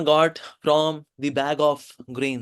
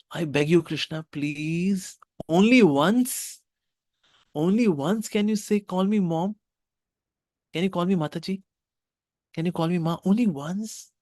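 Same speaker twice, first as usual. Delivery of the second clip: pleading; 4 semitones higher than usual. Acted. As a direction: beg him earnestly. Begging Krishna call her Ma.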